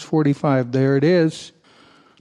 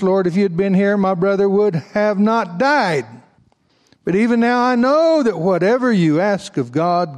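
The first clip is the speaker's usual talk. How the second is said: earnest plea; 4 semitones higher than usual. Acted. Reading Martha's plea to Jesus.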